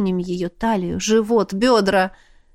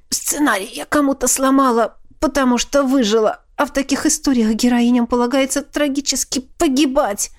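snapping back; 4 semitones higher than usual. Acted. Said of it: "Огрызнулась она".

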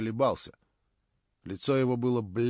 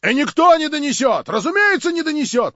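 loud, high chorus of protest; many voices crying out; 12 semitones higher, 10 dB louder than usual. A narrator's reading. The gathering protests that nobody will inform, crying out loudly. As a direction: call out like an indignant crowd. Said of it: "послышались многие голоса".

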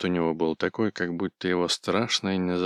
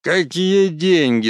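much higher, louder indignant shout; 11 semitones higher, 8 dB louder, slower than usual. A narrator's reading. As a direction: yell it, offended and furious. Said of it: "закричал он".

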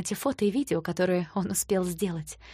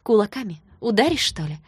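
wry taunt; 3 semitones higher, 6 dB louder than usual. Acted. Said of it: "криво улыбнулась я".

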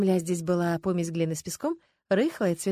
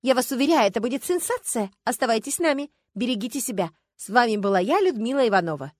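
бодрый голос ведущей, чуть громче; обратись к зрителям с экрана; телевизионная подача; 4 semitones higher, 5 dB louder than usual. Acted. Телеведущая в кадре. (бодро, как в эфире)

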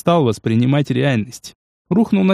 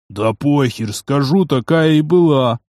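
sullen dismissive; slower than usual. Acted. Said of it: "хмуро отмахнулся тот".

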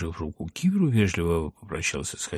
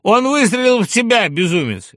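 high, loud agitated shout; horrified, raised-voice exclamation; alarmed outcry; 9 dB louder than usual. A narrator's reading. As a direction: yell in shock at the shot. Alarmed cry after the shot.

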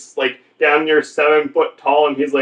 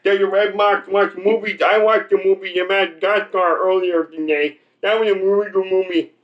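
mumbled mock simpleton chatter; slow greeter; 3 semitones higher than usual. Comic playing greeter chatting about movies, slow-witted mumble. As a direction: lightly imitate a slow, eager movie fan. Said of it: "they talk like that".

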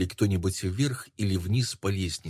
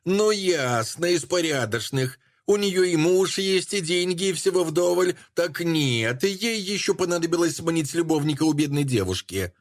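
coarse jealous woman; 8 semitones higher than usual. Acted. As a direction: berate her with crude contempt. Jealous woman berating a stranger.

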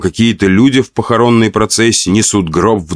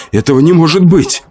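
higher, pleading whine; stunned whimper over his own body; whining disbelief; 7 semitones higher than usual. A narrator's reading. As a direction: whimper it like a kicked dog. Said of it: "заскулил я".

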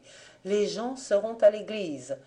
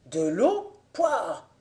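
« Pouah ! » craché avec dégoût; dégoût grimaçant; 2 semitones higher, 3 dB louder, slower than usual. A narrator's reading. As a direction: rejet écœuré de l'eau, petit cri de grimace. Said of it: "fit le saint avec une grimace". (dégoût du fermier pour l'eau)

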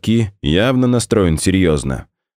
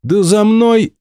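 cut-off shout; 5 dB louder, slower than usual. Acted. Onegin threatens, gets cut off.

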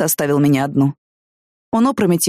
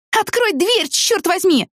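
furious shout; 13 semitones higher, much slower than usual. Acted. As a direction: hammer out the demand in rage. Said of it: "Вне себя от ярости".

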